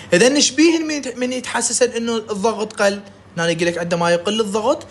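ordinary delivery

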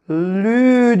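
"Lü" drawn out on the vowel; syllable read-out. Shown as a demonstration. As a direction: sound out a long "Lü" for pupils. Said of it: "diye okuyoruz değil mi". ("Lü" hecesini uzatarak okuma)

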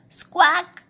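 loud, high hen squawk; sudden storybook hen cry. A narrator's reading. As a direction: screech it like an alarmed hen. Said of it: "cried the hen".

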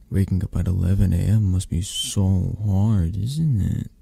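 playful mock sympathy, lifting on the closing question; teasing. Speaker to partner waking up late, teasing. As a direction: tease with put-on pity. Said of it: "I'm teasing".

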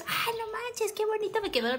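put-on high, soft, delighted child voice; proud little girl. Little girl admiring the drawing she just finished, high and delighted. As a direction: coo over your own drawing like a kid. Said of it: "lo coloreé y yo".

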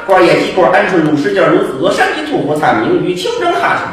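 crosstalk tongue-twister recital, loud and fast; rapid patter recital. Shown as a demonstration. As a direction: rattle off the dish names in one breath. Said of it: "reciting the dish-name patter".

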